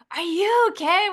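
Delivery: high-pitched mock Australian question; light, playful Australian impression; attempted Australian accent. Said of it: "I won't even try the accent".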